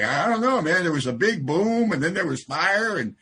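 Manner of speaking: lightly voiced dazed cockroach survivor. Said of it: "it's like".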